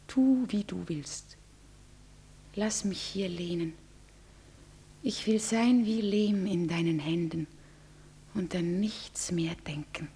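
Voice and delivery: low, soft whisper of submission; whispered surrender. Acted. Bride whispering her surrender into her lover's arms. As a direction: give yourself up, barely voiced.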